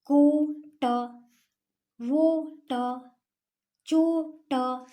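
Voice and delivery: को ट, वो ट said loud and slowly in parts; teacher joining two syllables slowly; syllable blending demo. Shown as a demonstration. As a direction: sound out को ट piece by piece. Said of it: "दो वर्ण को जोड़ना".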